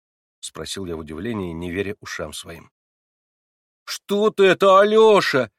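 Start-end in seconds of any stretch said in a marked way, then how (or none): 3.8-5.5 higher and much louder, shocked; almost a cry. A narrator's reading. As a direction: gasp it out in disbelief. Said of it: "чуть не вскрикнула Катя". (почти вскрикнув, выше и громче)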